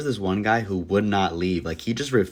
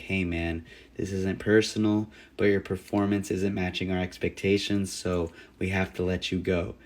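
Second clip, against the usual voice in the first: much softer, hesitant firing speech; timid firing; 3 semitones lower, 7 dB quieter than usual. Retold or imitated. Nervous manager quietly firing Johnny, much softer and timid. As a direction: barely get the words out.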